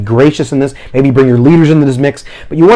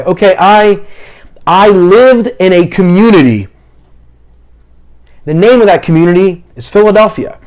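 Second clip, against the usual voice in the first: higher, halting short phrases; rephrasing demo; 3 semitones higher than usual. Shown as a demonstration. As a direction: reword it piece by piece for the interpreter. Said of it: "Find a different way to say it".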